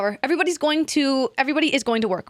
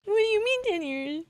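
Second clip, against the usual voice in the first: quiet disbelief; 7 semitones higher, 6 dB quieter than usual. Real, not acted. Stunned reaction to the news.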